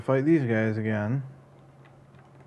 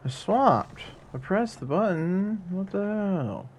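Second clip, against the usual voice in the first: frustrated disbelief; 8 semitones higher, slower than usual. Real, not acted. Game input failing, frustrated.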